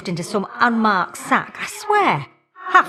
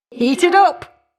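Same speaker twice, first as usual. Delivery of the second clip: battle cry; 9 semitones higher, 4 dB louder, slower than usual. Acted. Battle cry during combat.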